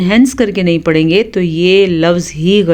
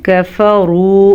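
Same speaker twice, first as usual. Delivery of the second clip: drawn-out careful recitation; slow recitation; much slower than usual. Shown as a demonstration. Teacher reciting the word for students. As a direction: say it slowly, as in recitation.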